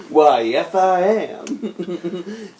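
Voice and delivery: very slow, high robot drawl. Retold or imitated. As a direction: stretch it out like a robot. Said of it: "Gay robot voice".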